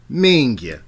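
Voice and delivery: "Minga" with the ya ending, falling; careful model. Shown as a demonstration. Coaching Sarah, careful falling model. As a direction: say "Minga" properly with the ya. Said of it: "Now, the emphasis".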